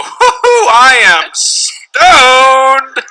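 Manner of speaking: high hoot, then very slow stoned drawl; cartoon stoner. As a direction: ham up a goofy stoner, dragging every word. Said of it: "I never have seen anybody go".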